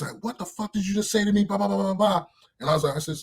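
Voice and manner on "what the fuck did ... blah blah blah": mild mock telling-off; mock angry sergeant. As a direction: imitate an indignant superior, trailing into blah-blahs. Retold sergeant confronting the private.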